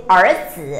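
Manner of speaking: เอ๋อจื่อ with a full third tone on จื่อ; third-tone ending. Shown as a demonstration. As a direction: give จื่อ full weight after เอ๋อ. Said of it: "ต้องเป็นตัวจื่อ เสียงสาม".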